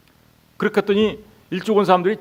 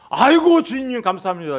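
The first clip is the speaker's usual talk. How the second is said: overjoyed thanks; 6 semitones higher than usual. Acted. A late laborer thanking his master, overjoyed and high. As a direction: gush out thanks like a surprised laborer.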